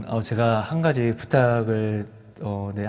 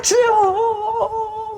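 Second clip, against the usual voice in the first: crying out; 6 dB louder, much slower than usual. Retold or imitated. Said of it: "막 이렇게".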